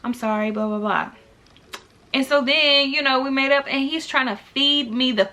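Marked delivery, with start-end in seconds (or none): 0.0-1.1 sing-song plea to calm him down; telling Jake not to be mad, mock sweet; mock sweet apology.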